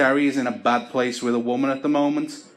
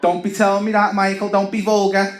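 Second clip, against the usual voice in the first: higher, louder prim scold; higher shocked nan; 7 semitones higher, 4 dB louder than usual. Retold or imitated. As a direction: clutch your pearls as the nan.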